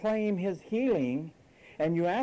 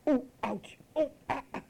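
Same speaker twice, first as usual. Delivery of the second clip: hammed-up whining, pitched much higher; mock whimpering; 9 semitones higher than usual. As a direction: fake a pitiful ouch, laughing at it. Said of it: "Was he crying?".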